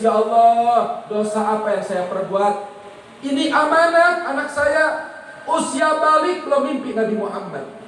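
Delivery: parents' lament. Retold or imitated. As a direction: mourn it like a parent whose child never dreamt of the Prophet. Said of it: "bapak sama ibunya nangis". (meratap seperti orang tua yang menangis)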